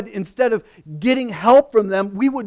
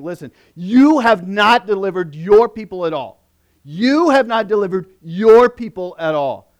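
frustrated complaint; 4 dB louder than usual. Retold or imitated. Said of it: "Moses had already voiced his frustration".

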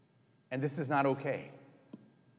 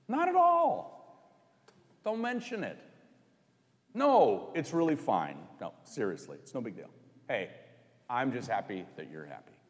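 breezy modest reply; 4 semitones lower, 3 dB quieter than usual. Pretend. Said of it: "Jesus doesn't say".

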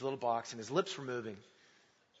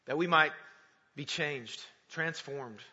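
measured prayer with long pauses. Real, not acted. Opens with a prayer.

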